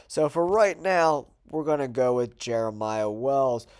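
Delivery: stuffy nose from a cold; nasally, blocked-up voice. Real, not acted. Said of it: "Please excuse my nasally voice".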